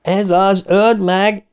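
high, urgent cheer; joining the shouting. A narrator's reading. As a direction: chime in with a high-pitched cry. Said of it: "csatlakozott hozzá Eddie".

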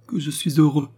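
overjoyed, building outburst; mounting joy. A narrator's reading. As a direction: lift the pitch with happiness. Joyful father repeats, rising.

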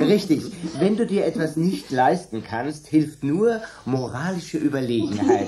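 loud, laughing through the words. Acted. Dan laughing at Margaret's remark on bourgeois love, amused. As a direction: chuckle out the mocking reply.

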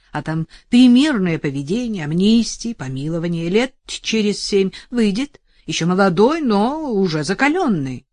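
loud, self-satisfied lawyer; pompous lawyer. Acted. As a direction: lecture her smugly about the sentence. Lawyer explains sentence.

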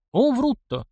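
high astonished gasp of disbelief. A narrator's reading. Grisha, shocked by rumours about himself, gasps in disbelief. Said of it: "поражённо охнул Гриша".

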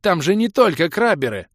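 high, loud angry cry; furious shout. A narrator's reading. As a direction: yell it in outrage. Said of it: "яростно закричала Кира".

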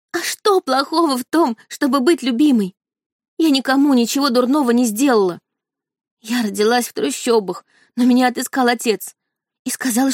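high, rising hysterical protest; a tearful hysterical tirade; hysterical outburst. A narrator's reading. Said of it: "вновь закричала". (высокая истерика со слезами)

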